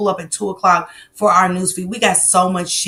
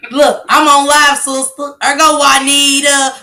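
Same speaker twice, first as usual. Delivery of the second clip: excited greeting; 7 semitones higher, 8 dB louder than usual. Real, not acted. Greeting sister on the phone.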